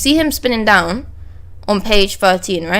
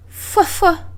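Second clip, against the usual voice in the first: Killer's laugh; 8 semitones higher than usual. Retold or imitated. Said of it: "sometimes he doesn't do the whole laugh thing".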